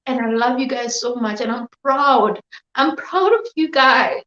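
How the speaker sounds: tearful, voice catching; real tears, pushing through; crying. Real, not acted. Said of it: "I can't stop crying".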